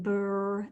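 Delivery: "brr" as b running into a held r; sounded-out blend. Shown as a demonstration. Teacher sounding out the start of brush, drawn out. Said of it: "consonant blend at the beginning".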